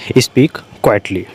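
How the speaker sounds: each word spaced out slowly for the class; slow dictation. Shown as a demonstration. Teacher spelling out an English sentence for learners, slow and deliberate. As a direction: dictate it slowly so students can follow. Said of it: "slow dictation of English phrase".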